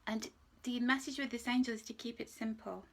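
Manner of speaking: normal talking voice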